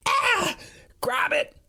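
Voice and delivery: very high-pitched fearful Norwegian cries; panicked Norwegian friend begging; frightened Norwegian-accented shrieks. Acted. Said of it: "His high-pitched Norwegian accent has the sound of genuine fear".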